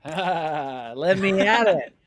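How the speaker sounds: hammed-up eager charge, let me at it; eager mock battle cry. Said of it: "that's where I go".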